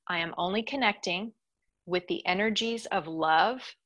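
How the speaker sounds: phrase by phrase, pausing for repetition; slowly with breaks. Shown as a demonstration. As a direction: leave gaps for listeners to echo. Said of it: "say it slowly with breaks".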